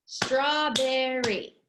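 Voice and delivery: Strawberry very slow in three beats; "Strawberry" drawn out syllable by syllable. Shown as a demonstration. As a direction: clap out STRAW-BER-RY evenly. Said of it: "there's three syllables".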